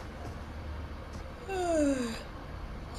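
long soft falling sigh; drawn-out breathy sigh on waking. Pretend. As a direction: sigh slowly as if roused from sleep. Being woken up from sleep.

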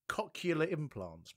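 "cochlear implants" said slowly, in the dad's odd way; dad's odd pronunciation. Retold or imitated. Co-host copies the boy's dad's pronunciation, slow and deliberate. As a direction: draw out "cochlear" as the boy's dad says it. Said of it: "Nicholas Carter's dad always pronounce it".

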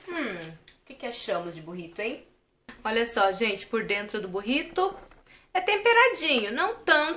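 chewing between words; talking while eating burrito; mouth partly full. Real, not acted. Seen 4: Holds bitten burrito, lips closed between words, mouth seems busy.

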